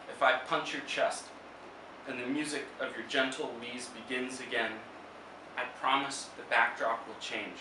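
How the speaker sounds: measured poetry reading with long pauses; poem recital. Acted. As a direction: read it as verse, phrase by phrase. Reads own poem aloud.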